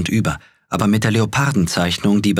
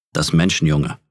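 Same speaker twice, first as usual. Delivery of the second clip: bear growl; 2 semitones lower than usual. A narrator's reading. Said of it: "setzte sich auf die Hinterbeine und knurrte".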